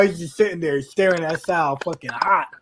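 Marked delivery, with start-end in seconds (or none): none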